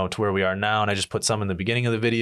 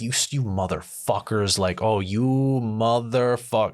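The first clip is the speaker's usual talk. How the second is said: slow curse; slower than usual. Retold or imitated. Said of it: "And I'm like".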